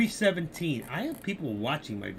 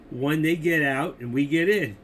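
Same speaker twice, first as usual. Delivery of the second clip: louder, stressing out and in; redone with emphasis; 8 dB louder than usual. Shown as a demonstration. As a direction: hammer the out and the in. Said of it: "Where's my emphasis?".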